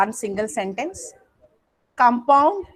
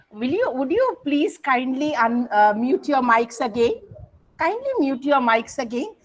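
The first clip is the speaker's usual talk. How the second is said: gently asking, kindly; requesting the class to mute again; polite request. Shown as a demonstration. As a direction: ask nicely, rising at the end. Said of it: "it's a request".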